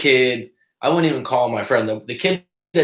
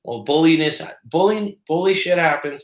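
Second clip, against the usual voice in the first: high mocking objection voice; mock objector; 6 semitones higher than usual. Host mocking an imagined critic, high lightly mocking voice. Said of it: "someone's gonna say".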